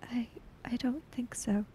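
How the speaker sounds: barely voiced, breathy whisper; hushed whisper. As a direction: whisper it, numb with shock. Chiaki answers in hushed voice.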